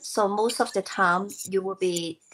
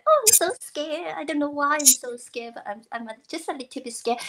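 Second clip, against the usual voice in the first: lightly put-on cute fright, starting high; cute scared voice; 4 semitones higher than usual. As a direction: play fear a little cutely, easing down at the end. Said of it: "interpret that emotion in cute, cute, cute way".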